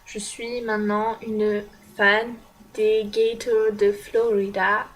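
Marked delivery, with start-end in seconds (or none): 2.0-4.9 American accent. Real, not acted. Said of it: "je m'excuse pour mon accent pourri".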